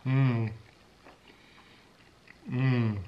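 humming while chewing; closed lips, mouth full. Real, not acted. Seen 0: Bit honeycomb at -5; closed-mouth chewing with pursed lips during both hums.

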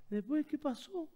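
imitating indignant wife. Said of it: "te dice". (imitando a la esposa indignada, más aguda y fuerte)

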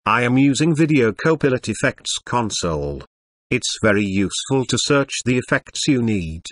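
robotic text-to-speech computer voice. Acted. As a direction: read it like an old speech synthesizer. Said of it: "sorry for the computer voice".

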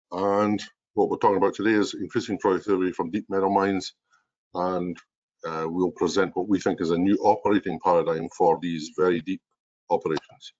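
speaking in a strong Scottish accent; natural broad Scottish accent. Real, not acted. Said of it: "I have a strong Scottish accent".

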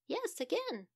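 a frazzled mum ringing for help; fretful Mamma Monkey. Acted. Mamma Monkey admits again.

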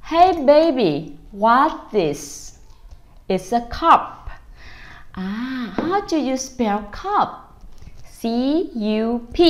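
put-on high, slow sing-song to a baby; drawn-out cheerful questions to a toddler; upbeat parent. Parent quizzing baby about the table, sing-song. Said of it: "Chúng ta thấy cái cup".

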